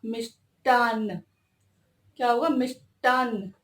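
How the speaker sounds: मिष्टान slowly, ष्ट clear and no ठ; slow correct form. Shown as a demonstration. Teacher correcting a common sweet-box spelling, slow careful form. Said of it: "इसका शुद्ध क्या होगा?".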